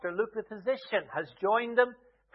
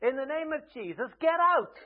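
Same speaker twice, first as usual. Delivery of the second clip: frustrated command; 5 semitones higher than usual. Retold or imitated. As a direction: snap out the command, fed up. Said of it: "Paul gets frustrated and turns around and says".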